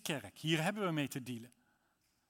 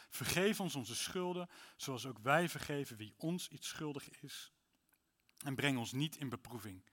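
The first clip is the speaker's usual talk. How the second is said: prayer reading. Acted. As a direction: pray it, fading to stillness. Reads the Lord's Prayer. (biddend voorgelezen, wegstervend)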